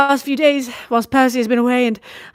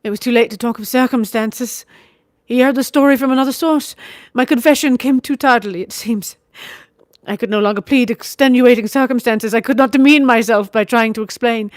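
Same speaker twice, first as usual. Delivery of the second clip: higher, louder bitter scorn; vehement bitterness; 4 semitones higher, 6 dB louder than usual. A narrator's reading. Wife bitterly confessing her marriage, vehement scorn. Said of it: "She spoke with vehement bitterness".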